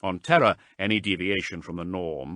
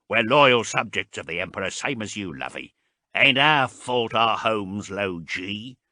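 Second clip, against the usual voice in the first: indignant; 3 semitones higher, 7 dB louder than usual. A narrator's reading. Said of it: "said Huringer angrily".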